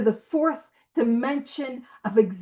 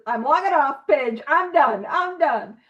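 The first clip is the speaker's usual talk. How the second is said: mock exasperated quit; 3 dB louder than usual. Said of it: "some people here that are just".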